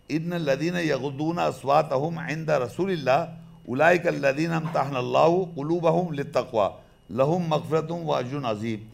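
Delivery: slow, measured chanted recitation; Quran recitation. Acted. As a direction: recite the verse slowly and evenly.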